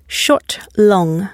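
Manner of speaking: brief "Short", then stressed "long"; stress pattern demo. Shown as a demonstration. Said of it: "only one long and stressed syllable".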